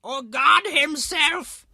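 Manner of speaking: put-on high, loud old-woman voice; slow, drawn-out old lady cry; elderly woman. A narrator's reading. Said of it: "added an elderly woman".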